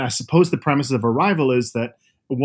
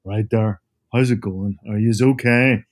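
Belfast accent; 2 semitones lower than usual. Shown as a demonstration. Father back home in Belfast greeting his kids in a Northern Irish accent. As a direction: slip into broad North Belfast talk for the kids. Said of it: "I'm talking like this".

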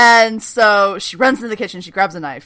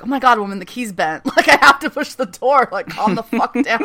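mock exasperated grumble, slightly put-on; a hint of the fed-up scientist, laughing at the end; irritated Mohinder; 2 semitones higher than usual. Host imitating Mohinder scolding Maya, mildly irritated put-on. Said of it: "I live for irritated Mohinder".

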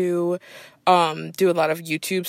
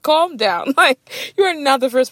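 exasperated calm down; 7 semitones higher, 5 dB louder than usual. Retold or imitated. Host telling the passenger to calm down, exasperated. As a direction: roll your eyes at the passenger.

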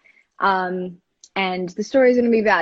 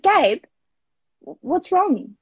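worried call; 10 semitones higher, 3 dB louder, slower than usual. Retold or imitated. Sister worried by silent brother.

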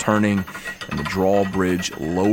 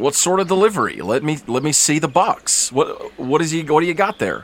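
stern guard; 7 semitones higher than usual. Acted. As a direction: lay down the rule at the gate. Guard demands to see box.

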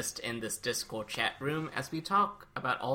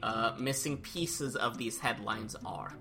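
upbeat, louder game show host; 5 dB louder than usual. Acted. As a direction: announce it like a TV quiz host. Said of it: "back with the game show host voice".

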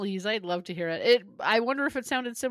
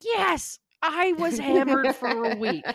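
mock hungover confession; 2 semitones higher, slower than usual. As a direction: ham up a hungover admission.

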